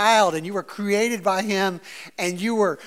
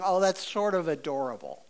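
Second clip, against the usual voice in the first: fondly amused; 3 semitones lower, 6 dB quieter than usual. Retold or imitated.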